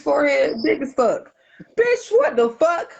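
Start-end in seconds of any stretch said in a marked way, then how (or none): 1.8-2.9 incredulous. Retold or imitated. Disbelief at the excuse.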